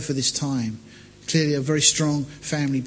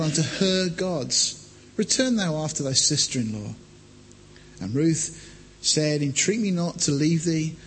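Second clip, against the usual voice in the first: measured Bible reading voice; scripture reading. Acted. Preacher reads Ruth to congregation, measured. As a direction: read the passage steadily to the church.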